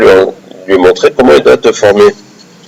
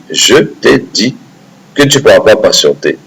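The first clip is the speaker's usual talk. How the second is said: calm reminder. Acted. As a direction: remind him patiently, drawing it out. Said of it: "Et là, le Khidr lui dit".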